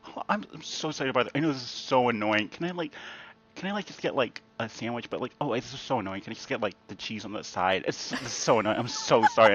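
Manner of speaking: soft, fast, fawning apology; hushed and rushed, begging pardon; overly apologetic waiter. Retold or imitated. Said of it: "the other waiter is like".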